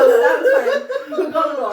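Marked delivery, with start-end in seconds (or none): none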